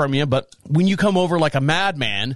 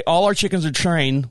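normal talking voice

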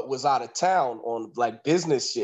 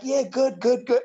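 mock nervous reply; 8 semitones higher than usual. Nervous woman answers fiancé.

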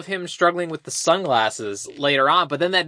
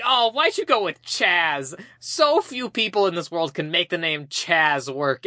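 mock exasperation; slower than usual. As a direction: draw it out as a mock scolding. Retold scolding of the character.

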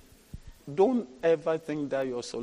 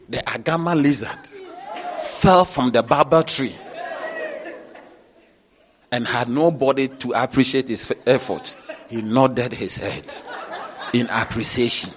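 loud, laughing mockery of the proverb; mocking laughter; 4 dB louder than usual. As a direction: laugh at the foolish advice. Mocking a proverb-quoting preacher.

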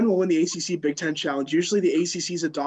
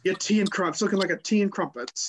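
put-on British accent; 4 semitones higher than usual. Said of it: "say it in a British accent".

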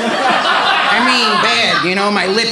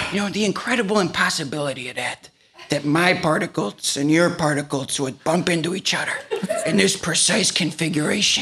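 hushed wonder; 4 semitones lower, 6 dB quieter than usual. Acted. Hushed wonder after the hug.

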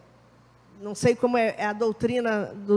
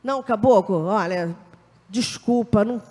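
pleading apology to a spirit guide; 2 semitones lower, 3 dB louder than usual. Retold or imitated. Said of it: "como é que as pessoas falam com os guias".

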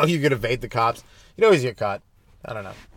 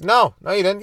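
put-on arguing toddler; 7 semitones higher, 5 dB louder than usual.

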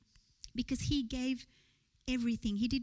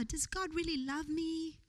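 softer, higher, plaintive doubt; doubting believer; 4 semitones higher, 5 dB quieter than usual. Retold or imitated. Preacher voicing a believer's doubt, softer and higher. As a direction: voice the hurt question gently.

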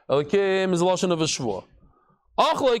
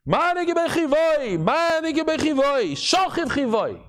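retold screaming; 7 semitones higher, slower than usual. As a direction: call it out like a soldier crying the news. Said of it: "starts screaming".

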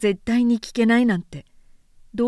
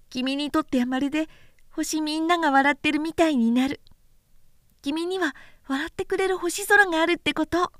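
put-on a lightly higher boyish voice, tender and earnest; little prince voice; 6 semitones higher than usual. Small prince consoling the pilot, lightly higher boyish voice. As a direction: speak like a small boy comforting a friend. Prince explains the laughing stars.

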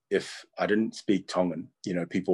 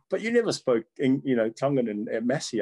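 imitated puzzled students; 5 semitones higher, 3 dB louder than usual. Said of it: "they're looking at me like".

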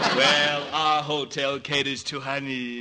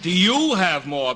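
louder echo with a laugh; mocking echo; 4 semitones higher, 7 dB louder than usual. Clerk mockingly repeats the husband's question, loud and laughing. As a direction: parrot his question back, outraged.

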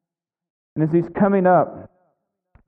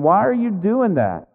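mock complaint, pitched up then falling; grumbling objection; 5 semitones higher than usual. Pharisees and scribes grumbling at Jesus, grumbling objection. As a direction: imitate the disapproving scribes, higher in pitch. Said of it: "who are grumbling and saying".

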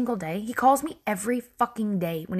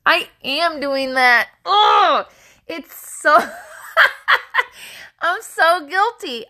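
high, loud realization breaking into laughter; laughing guilty admission; 7 semitones higher, 5 dB louder, slower than usual. Real, not acted. Storyteller realizing she is guilty, laughing admission. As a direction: own up through a big laugh.

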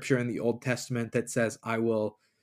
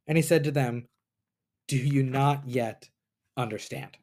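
measured Bible reading, rising on Jesus' questions; scripture reading. Acted. Podcaster reads Mark to listeners, steady scripture reading. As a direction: read the passage like a lesson.

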